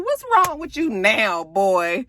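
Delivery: high exasperated question; exasperated mom voice. Real, not acted. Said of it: "I said".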